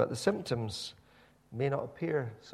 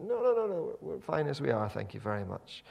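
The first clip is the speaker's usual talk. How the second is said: Israelites refusing. Retold or imitated. Preacher voicing Israelites waving off God's call, mock-smug.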